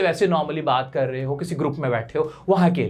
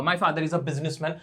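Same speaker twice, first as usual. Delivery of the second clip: slow model; 4 semitones lower, 4 dB quieter, slower than usual. Shown as a demonstration. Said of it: "अपने पापा".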